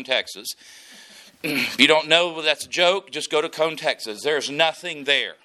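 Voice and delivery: ordinary delivery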